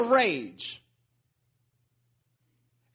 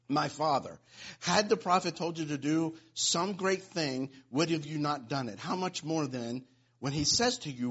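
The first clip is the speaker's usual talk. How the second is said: scripture reading; 4 semitones lower than usual. Acted. Continues scripture reading, fading quiet.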